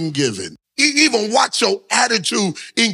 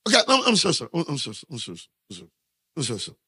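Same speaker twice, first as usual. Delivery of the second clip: fading apology; 7 semitones lower, 6 dB quieter, much faster than usual. Acted. Pretend apology fading away.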